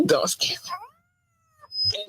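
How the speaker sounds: startled laugh, high and breathy. Real, not acted. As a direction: laugh it off, spooked. Startled by a voice clip.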